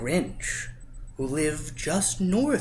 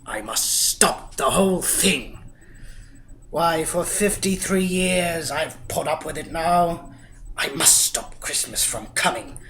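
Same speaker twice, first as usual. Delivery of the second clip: Grinch voice; 4 dB louder than usual. Acted. Grinch voice quoted thoughts.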